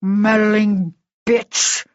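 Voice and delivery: very slow, venomous snarl. Acted. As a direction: drag out the insult with contempt. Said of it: "he snarled".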